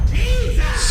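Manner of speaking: sudden high shout; shouted Jesus. Real, not acted. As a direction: yell it out in exasperation. Outburst at mother's calls.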